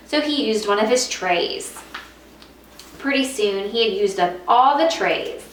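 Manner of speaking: put-on lively storybook reading for young students; reading to children. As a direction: read it like a teacher at story time. Teacher reads picture book aloud.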